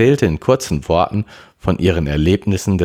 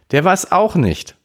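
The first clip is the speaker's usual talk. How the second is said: high-pitched snappish retort; snapping; 4 dB louder than usual. A narrator's reading. Sister defends someone to her brother, snappish. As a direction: snap back defensively, pitch jumping up. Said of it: "fauchte Melanie".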